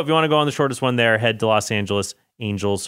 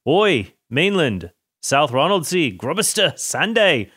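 hammed-up Scottish accent, rising higher on the island names; bad Scottish accent; 4 semitones higher, slower than usual. Listing Orkney islands to listeners in a mock Scottish accent. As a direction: roll off the island names in a put-on Scottish lilt. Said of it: "he wasn't gonna do a Scottish accent anymore, and then he did".

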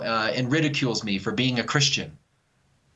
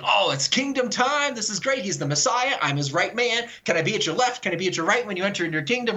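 higher, eager apostle dreaming of glory; imitating excited apostle; 5 semitones higher than usual. Apostle to Jesus, hoping for a throne, mock excited. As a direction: play Peter thrilled it's finally kingdom time. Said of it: "You're all excited".

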